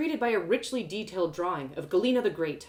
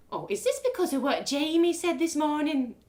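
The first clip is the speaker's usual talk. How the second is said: higher, anxious mother's voice; worried mum; 9 semitones higher, 4 dB louder than usual. Acted. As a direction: probe nervously. Mum questions her.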